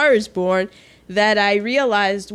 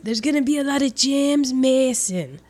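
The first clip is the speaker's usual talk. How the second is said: James Mason. Acted. Co-host teasing the film's star, a light James Mason impression. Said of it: "how to talk like James Mason".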